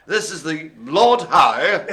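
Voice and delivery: slow, put-on mid posh accent. Host trying the insect's name in a mock posh accent. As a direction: attempt a posh accent, drawn out. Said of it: "It's how to do this in a mid posh accent".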